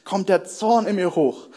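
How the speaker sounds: retold lament that climbs in pitch; retold complaint. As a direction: voice her mounting frustration, stretching the words. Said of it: "sie klagte über die Situation".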